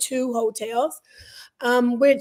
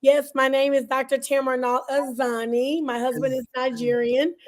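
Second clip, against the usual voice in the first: hoarse after a party; slightly hoarse, voice half gone; scratchy voice. Real, not acted. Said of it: "My voice is a little scratchy".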